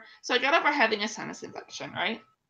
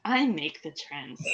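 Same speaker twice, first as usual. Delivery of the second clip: mock boast; 6 semitones lower, slower than usual. Real, not acted. Joking boast to co-host.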